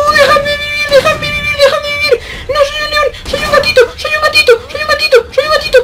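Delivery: very high, loud squeaky begging; squeaky pleading. Pretend. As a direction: squeal for mercy.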